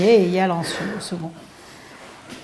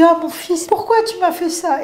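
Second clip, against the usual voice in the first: supplication en pleurs rejouée; 9 semitones higher than usual. Retold or imitated. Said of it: "Et je commençais à pleurer".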